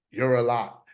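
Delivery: laughs through the therapist's words; amused retelling of the therapist; laughing quote. Retold or imitated. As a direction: say it while cracking up. Quoting the therapist while laughing.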